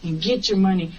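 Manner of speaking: imitating a pushy, bossy order. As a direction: lay down the law, mildly acted. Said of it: "she was talking to me like that".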